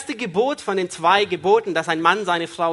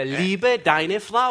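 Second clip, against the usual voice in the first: slow command; much slower than usual. Acted. Interpreter slows the command.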